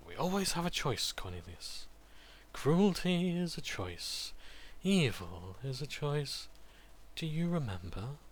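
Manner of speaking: high, slow gentle sing-song. Acted. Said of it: "The sing-song voice says".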